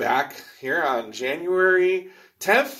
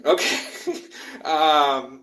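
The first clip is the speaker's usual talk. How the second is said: nervous laugh; much slower than usual. Real, not acted. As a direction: laugh off the scare. Nervous laugh after bat scare.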